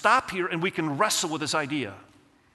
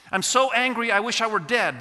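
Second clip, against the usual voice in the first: higher, louder angry outburst of Jonah; acted anger; 6 semitones higher, 4 dB louder than usual. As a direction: hurl it back like a sulking prophet. Jonah answers God in anger.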